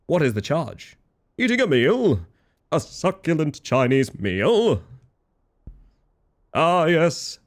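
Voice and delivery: hammed-up quoting of an indignant arrestee; a hint of the outraged Aussie arrestee; Democracy Manifest impression. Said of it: "Was that impression a reference to Democracy Manifest".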